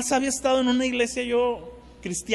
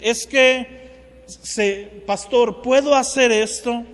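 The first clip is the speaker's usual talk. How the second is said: pleading youth; 4 semitones higher, 6 dB louder, much slower than usual. Retold or imitated. Young people asking the pastor.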